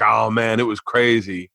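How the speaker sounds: lightly imitated buddy, a bit low; Derek. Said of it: "I did his voice".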